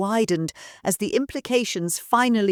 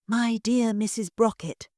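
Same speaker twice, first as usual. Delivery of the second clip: purring; 4 semitones higher than usual. Acted. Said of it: "he purred".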